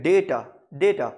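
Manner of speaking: DAY stressed in डेटा, short "ta"; first-syllable stress. Shown as a demonstration. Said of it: "first syllabus stress".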